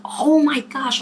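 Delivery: high, hammed-up gasp of realization; mock shock. Daughter caught out by dad over a tattoo, mock shock.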